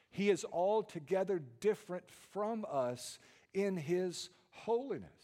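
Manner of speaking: high voiceless whisper. Acted. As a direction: keep whispering but lift it. Whisper continues, rising.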